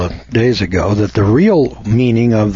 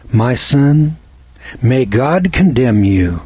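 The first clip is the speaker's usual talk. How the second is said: gentle blessing tone; slower than usual. Shown as a demonstration. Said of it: "the tone of voice there doesn't have the same impact".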